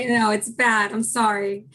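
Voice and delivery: hoarse, apologetic voice. Real, not acted. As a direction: talk through a sore, hoarse throat. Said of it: "I'm losing my voice today".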